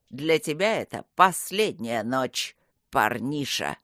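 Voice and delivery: low, slow, threatening growl; menacing thug. A narrator's reading. Sam threatens the young savior, low slow menace. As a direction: threaten him deep and slow.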